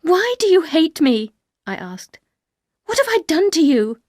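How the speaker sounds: put-on young wife begging the housekeeper, high and pained; hurt pleading. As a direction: cry out hurt and baffled.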